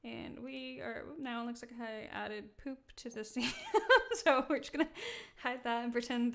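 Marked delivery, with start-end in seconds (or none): 1.2-3.5 giggling through the words; amused, starting to crack up; laughing. Real, not acted. Jokes model looks like poop. 3.6-4.1 high loud laugh bursting out; burst of laughter. Real, not acted. Cracks up at own joke. 4.2-6.3 louder, still laughing through words. Real, not acted. Still laughing after joke.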